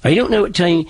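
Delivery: East Anglian settler voice, mild and unhurried; lightly voiced old Norfolk accent. Shown as a demonstration. Dialect coach showing how the settlers sounded, in an East Anglian accent. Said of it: "they sounded like this".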